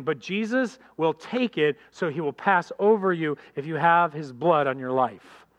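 ordinary talk

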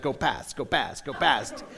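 low, soft muttered urging; will him onward under your breath; quiet, low chant to himself; anxious inner plea. Retold or imitated. Silently willing passenger to pass.

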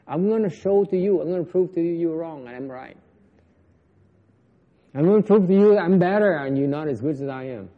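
mock arrogant ego, gathering speed. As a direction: brag like a smug ego proving a point. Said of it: "Ngã nó còn nói".

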